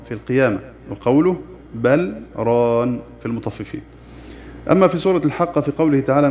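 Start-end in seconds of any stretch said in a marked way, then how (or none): 1.7-3.0 بل with a short breathless stop before ران, very slow; recited with a brief pause. Shown as a demonstration. Teacher demonstrates the pause in بل ران, very slow. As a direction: pause lightly after بل without taking breath. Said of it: "نسكت سكتة لطيفة بغير تنفس".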